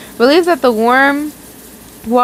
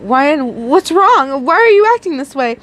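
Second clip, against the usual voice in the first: timid stammer; 4 semitones higher than usual. Acted. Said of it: "Norman stammered timidly".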